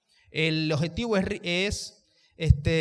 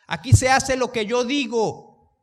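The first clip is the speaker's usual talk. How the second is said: domineering yell, higher and louder; demo angry yell; 6 semitones higher, 8 dB louder, slower than usual. Shown as a demonstration. Preacher demonstrating a bully yelling at home, loud and slow. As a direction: bark it like a bossy tyrant. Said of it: "elevo la voz con un fin malo".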